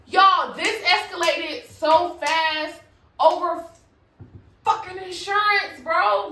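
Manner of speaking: slow, high, loud incredulous complaint; exasperated disbelief. Retold or imitated. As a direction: stretch it out in disbelief. Disbelief at the arrest.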